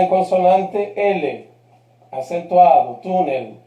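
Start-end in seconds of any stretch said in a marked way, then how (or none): 3.0-3.6 "túnel" stressed on "tú", low falling end; penultimate stress. Shown as a demonstration. Teacher rounding off the example, "túnel" strong on its first syllable. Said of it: "penúltima sílaba, fuerte".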